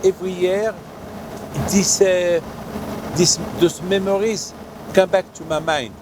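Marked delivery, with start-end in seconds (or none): none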